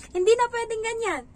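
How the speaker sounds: hindi said high and loud; firm declaration. Shown as a demonstration. Nanny declaring to viewers that this must change, loud. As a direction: punch hindi, high and emphatic.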